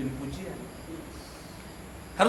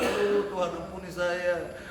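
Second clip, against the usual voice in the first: imitated uneasy prayer; 2 semitones lower than usual. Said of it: "tidak sejahtera".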